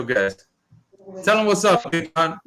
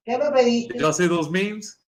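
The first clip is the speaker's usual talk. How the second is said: slow, higher, stretched-out tease; drawn-out teasing voice; 6 semitones higher, slower than usual. Acted. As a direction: draw the question out in a higher, teasing voice. Repeated, drawn out, in a put-on voice.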